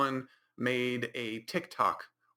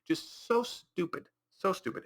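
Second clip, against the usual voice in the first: higher, slowed, incredulous groan of a verdict; exasperated disbelief; 8 semitones higher than usual. Real, not acted. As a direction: throw up your hands at how dumb it is. Exasperated judgement on the plot.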